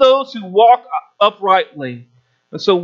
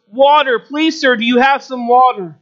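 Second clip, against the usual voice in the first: desperate plea; 5 semitones higher than usual. Acted. Thirsty man begs nomad.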